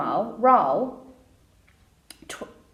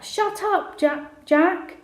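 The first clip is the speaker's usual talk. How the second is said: higher-pitched, mildly raised shout; shouted back; 8 semitones higher, slower than usual. A narrator's reading. Sister telling teasing brother to shut up, shouted. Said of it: "Amy shouted back".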